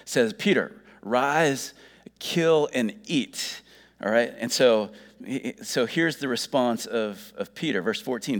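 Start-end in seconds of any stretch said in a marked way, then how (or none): 0.3-3.6 slow, measured divine command; voice of God slowly commanding. Acted. God's Spirit commanding Peter in a vision, slow and deliberate. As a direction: issue each order slowly, with pauses. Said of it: "And this voice".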